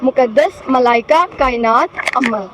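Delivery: names rattled off without breathing; in one breath. Real, not acted. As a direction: race through on one breath. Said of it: "ten करने हैं नाम". (एक सांस में)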